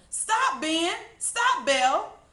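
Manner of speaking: high, loud calls, last one slow; yelling. A narrator's reading. Children yelling at fleeing pigs to stop. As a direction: shout them to a stop. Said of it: "they yelled".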